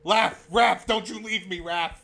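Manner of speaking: calling after a leaving friend; half-joking panic; laughing plea. Real, not acted. Friend leaving, begging him stay.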